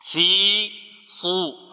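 صو slow with a full, heavy ص; heavy sad demo. Shown as a demonstration. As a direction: press the ص of صدور heavy. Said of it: "مفخمة". (تفخيم الصاد)

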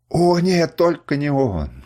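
loud, high, slowed mock despair; mock dismay. A narrator's reading. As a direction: ham up the dismay as a joke. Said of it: "вскричал Камчак ... в насмешливом разочаровании". (насмешливое притворное отчаяние, громко и медленно)

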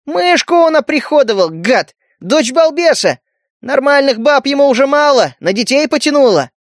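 high, indignant yelling; outraged shouting. Acted. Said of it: "выкрикнул Поли".

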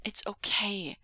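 mild reassurance; understated comforting tone; soothing. Acted. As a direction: try to calm them gently. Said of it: "voice as soothing as he could".

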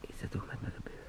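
unvoiced, stunned whisper; whispered disbelief. Gregor alone in bed whispering in disbelief. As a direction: whisper it as if afraid to ask.

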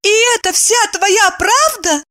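high, incredulous; surprised. A narrator's reading. Evdokia incredulously questions Kirillov. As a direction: doubt him. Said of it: "удивилась она".

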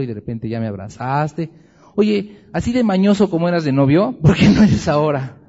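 voicing Adam, rising to loud. Preacher voices Adam pleading.

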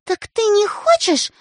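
high, slow menace; threatening. A narrator's reading. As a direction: warn him slowly. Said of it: "угрожающим голосом".

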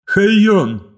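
high, loud inhuman calling voice; eldritch horror. Acted. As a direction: call out like an inhuman machine. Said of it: "тусклый нечеловеческий голос".

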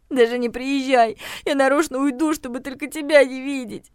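put-on childish, hurt threat; tearful defiance. Regina threatens to leave the house, tearful and defiant.

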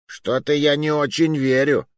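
snide retort. A narrator's reading. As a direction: needle them with open distrust. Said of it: "съязвил Джузеппе". (язвительно, с недоверием)

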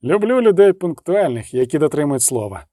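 plain reading voice

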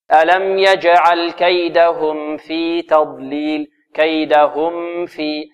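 slow chanted line, "كيدهم" ending in a clear mim before "في"; medium-length mim. Shown as a demonstration. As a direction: recite slowly, mim of "كيدهم" measured and distinct. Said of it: "توسط الزمن المتوسط هذا". (ترتيل بطيء مع توسط زمن ميم «كيدهم»)

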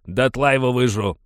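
loud, high savage threats; furious miner threatening to devour the boy; raging. A narrator's reading. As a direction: rage at him. Rages at the boy.

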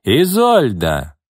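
slow, loud call of a name; shouting across the hall. Acted. Irma calls her sister out before the crowd, loud and slow. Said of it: "крикнула она на весь зал".

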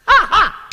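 loud, high triumphant laugh; hearty laugh. Acted. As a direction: laugh out like the Monkey King. Wukong bursts in laughing. (高亢响亮的得意大笑)

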